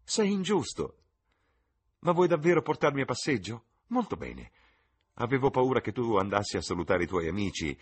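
molto più acuta e più forte, ridente; ridendo vivace. Acted. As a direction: ragazza che ride e stuzzica il fratello. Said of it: "rise Sibyl". (Sibyl prende in giro Jim, ridendo, acuta e squillante)

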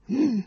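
annoyed closed-mouth "mm"; irritated hum. A narrator's reading. Berlioz dismissing the stranger's joke, irritated hum. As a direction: grumble wordlessly at a bad joke. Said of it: "mugolò Berlioz, irritato dallo scherzetto".

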